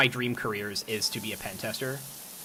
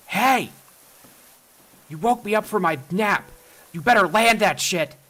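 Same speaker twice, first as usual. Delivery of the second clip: put-on loud, higher grumpy old man yelling; 8 semitones higher, 4 dB louder than usual. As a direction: bark it like a cranky old neighbor. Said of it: "I put on my best old man, uh, voice and face".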